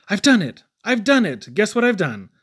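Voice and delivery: loud, high, bursting with triumph; triumphant shout. Acted. Inventor announcing his invention, triumphant shout. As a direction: shout the discovery to the world.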